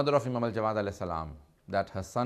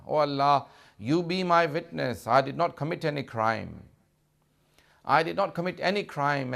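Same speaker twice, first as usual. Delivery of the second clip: retold plea in a raised preacher's pitch; crying plea to God; 4 semitones higher than usual. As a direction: voice a dying man's appeal, higher and insistent. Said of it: "He only cries and says".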